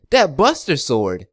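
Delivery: slow savoring. Real, not acted. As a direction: savor each word.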